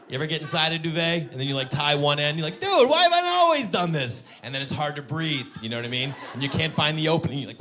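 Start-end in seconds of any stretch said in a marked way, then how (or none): 2.6-4.2 louder, higher panicky outburst; mock panic. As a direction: yell it trapped in a duvet. Trapped in duvet panic.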